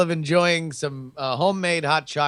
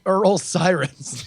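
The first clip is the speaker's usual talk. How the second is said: laughing; 2 semitones higher, 3 dB louder, much slower than usual. Real, not acted. Joke name, laughing.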